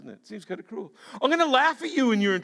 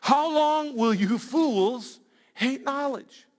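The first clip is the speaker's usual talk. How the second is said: slow, drawn-out scolding; slow solemn rebuke; wisdom's rebuke; 3 semitones higher, much slower than usual. Retold or imitated. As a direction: read it like a solemn warning. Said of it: "he goes on".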